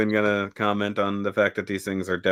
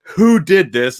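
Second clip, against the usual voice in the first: mild mock yell, bursting out on the question; retold scream; 3 dB louder, slower than usual. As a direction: imitate an outraged screamer, only half full out. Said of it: "he's just screaming".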